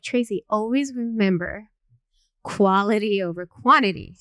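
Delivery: imitating a mentor's kind advice; retold gently instructive line, stress on key words; nicely explaining. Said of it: "just very nicely explained to me".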